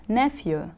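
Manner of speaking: "nephew" stressed on NEPH, falling at the end; stress on first syllable. Shown as a demonstration. Teacher models "nephew" for students to repeat, first syllable stressed. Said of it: "The stress is on the first syllable".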